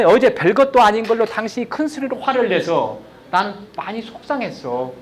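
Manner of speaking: gently telling husband how it hurt; calm I-message. Shown as a demonstration. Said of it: "이 말을 그대로 해주면 돼요". (차분하게 속마음을 전하는 말투)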